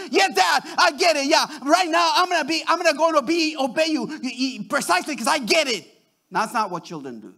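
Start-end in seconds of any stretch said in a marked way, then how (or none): 0.1-5.8 slightly raised, eager-sounding mock agreement; mock obedient child. Child supposedly agreeing to obey Dad, mock obedient. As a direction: lightly imitate an overly compliant kid. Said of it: "do you think they'll listen to you and they say".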